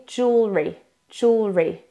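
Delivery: jewelry as two joined syllables, jool-ree; assembled pronunciation. Shown as a demonstration. Coach puts the sounds together for learners, reduced jewelry. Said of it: "ça va donner".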